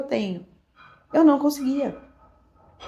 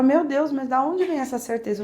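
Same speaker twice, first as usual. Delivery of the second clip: higher-pitched imitation of baffled husband; mildly incredulous questioning, pitched up; retold bafflement; 5 semitones higher than usual. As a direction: imitate someone puzzled and pressing for an answer.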